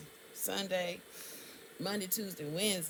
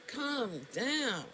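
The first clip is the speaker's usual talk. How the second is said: self-soothing; 3 semitones higher than usual. Retold or imitated. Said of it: "the entire time I'm going".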